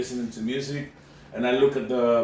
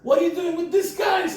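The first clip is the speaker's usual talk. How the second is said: much higher, louder mock cop demand; mock cop shout; 5 dB louder than usual. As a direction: bark it like an imitated cop. Cop questioning narrator.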